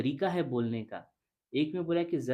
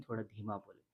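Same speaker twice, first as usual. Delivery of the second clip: softly demonstrated; 3 semitones lower, 10 dB quieter, much faster than usual. Shown as a demonstration. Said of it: "कहा जाएगा थोड़ा धीरे बोलें".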